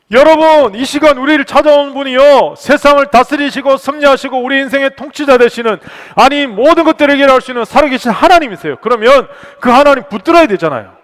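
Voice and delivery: very loud, high exhortation; full-force preaching. Real, not acted. Pastor exhorting the congregation to hold on to God, full-force preaching. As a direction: proclaim it at the top of the pulpit voice.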